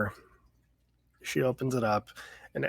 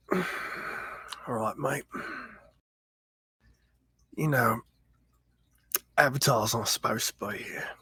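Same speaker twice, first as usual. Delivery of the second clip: put-on Australian accent. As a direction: play a laid-back Australian bloke, half-whispered. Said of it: "You're doing a great Australian accent".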